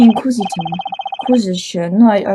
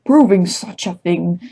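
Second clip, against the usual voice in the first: posh voice; 3 dB louder than usual. Acted. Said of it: "Let's say a posh Leighton voice".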